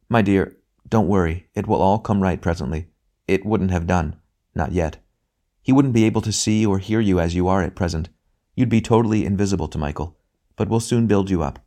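lightly voiced, soothing brother; gentle bright spirit. A spirit brother reassuring his grieving sister, gently.

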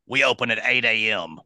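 mild impression of smoker dispatcher; heavy smoker's voice. Dispatcher stating opening hours to caller, hint of smoker's voice. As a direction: lightly imitate a chain-smoking woman. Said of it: "sounds like she smoked about five packs".

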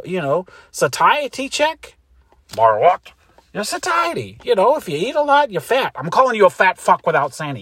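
high, loud bickering voices; loud sketch quarrel. Acted. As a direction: trade shouted insults on the phone. Telemarketer sketch voices continue.

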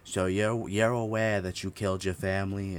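put-on thick Boston cop accent; loud Boston accent, questioning. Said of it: "like, a thick Boston accent".

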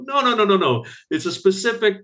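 high-pitched "no, no, no" protest; high insistent protest. Retold or imitated. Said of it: "They're like".

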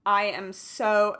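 nervous shaking voice; shaky voice. Real, not acted. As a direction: voice trembling with nerves. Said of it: "you can hear my voice shaking".

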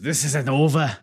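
hammed-up mock Italian accent. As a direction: put on a bad Italian accent. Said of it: "this is my Italian accent".

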